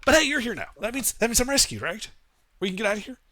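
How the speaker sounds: nervous little crab recounting the wreck; crab creature voice. Acted.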